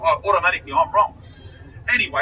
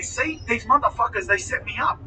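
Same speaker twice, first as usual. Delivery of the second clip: slightly raised, agitated retold protest; worked-up accusation; 4 semitones higher than usual. Suspect retelling his protest to detectives, mildly worked up. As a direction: replay the indignant outburst with some restraint. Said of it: "I'm jumping up and down".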